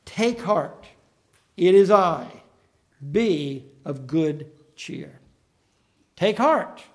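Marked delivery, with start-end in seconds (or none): 0.0-5.2 gentle, slow reassurance; calm them with a steady slow voice; Jesus calming terrified disciples, slow and gentle; reassuring voice. Retold or imitated. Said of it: "in a voice that they had to recognize".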